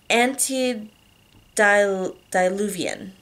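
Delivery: Antediluvian said very slowly, syllable by syllable; careful slow word. Shown as a demonstration. Narrator tackles a hard word, Antediluvian syllable by syllable. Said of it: "I'm gonna butcher it".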